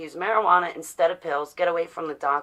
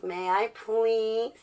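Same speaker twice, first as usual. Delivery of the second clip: mock-polite asking; much slower than usual. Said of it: "I don't have to ask".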